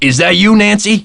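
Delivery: high, rising startled question; surprised calling out. Acted. Caretaker spots Nancy out in the cold, surprised call. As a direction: call out in surprise, pitch climbing right up.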